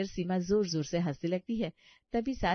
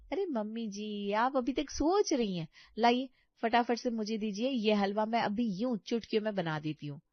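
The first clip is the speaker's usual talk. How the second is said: breezy overconfident bahu; 3 semitones higher than usual. Acted. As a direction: brush off the old lady cheerfully. Neha boasts to mother-in-law. (लापरवाह, इतराती बहू की आवाज़)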